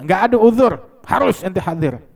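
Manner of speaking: acted scolding insistence; stern insistence. Jurist overrules the saint's excuse.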